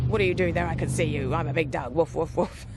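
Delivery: loud, bold big-dog voice; dog's barking challenge. Retold or imitated. Puppy Diamond warning a passer-by, loud barky bravado. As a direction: puff up like a guard dog warning a stranger. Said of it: "really let rip with".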